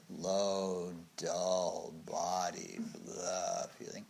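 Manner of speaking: slow, low-energy drag; dull sloth. Shown as a demonstration. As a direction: let the words sink heavily and softly. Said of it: "sloth feels kind of body".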